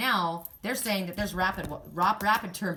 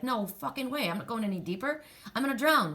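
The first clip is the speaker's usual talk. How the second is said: higher-pitched imitation of a balking grandson; retold refusal, pitched up, rising in force at the end; mock protest; 4 semitones higher than usual. Acts out scared grandson refusing deeper water.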